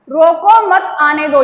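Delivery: "रोको मत आने दो" in one run, no comma break; no meaningful pause. Shown as a demonstration. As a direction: run all of रोको मत आने दो together evenly. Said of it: "यहाँ पर स्पष्टीकरण नहीं हो रहा है".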